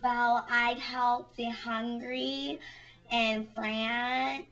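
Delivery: imitating a slow pageant answer; mock beauty-queen reply, drawn out; pageant contestant. Pageant contestant answering what she'd do for the world, slow mock earnestness. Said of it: "they always give those".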